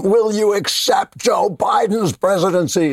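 high, slow, hammed-up reporter shout; mock interrogating anchor. Mocking an anchor who badgers senators, high slow shout. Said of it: "like, torture them".

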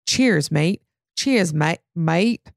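badly faked Australian accent; shaky Australian accent. Shown as a demonstration. Host trying a listener's fake accent, amateur Australian. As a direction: have a clumsy go at an Australian accent. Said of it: "I don't know how to do that accent".

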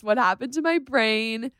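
high, slow, drawn-out cutesy imitation; Max. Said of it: "He always says".

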